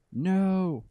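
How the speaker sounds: very high, loud shrieked refusal; child's shrill cry. Acted. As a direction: shriek it through wild laughter. Boy laughing hysterically.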